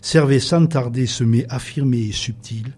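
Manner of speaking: slow, measured recitation with long pauses; poem reading. Acted. Guest reciting a Delteil-style truffle recipe on air, poetic reading. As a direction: read each instruction like a line of poetry.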